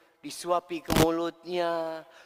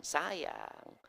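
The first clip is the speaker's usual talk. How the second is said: tender sayang; 6 dB quieter than usual. Shown as a demonstration.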